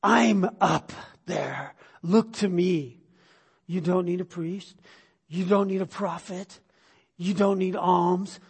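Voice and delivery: slow, calm voice of God speaking. Retold or imitated. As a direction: speak slowly and gently as God. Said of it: "God said".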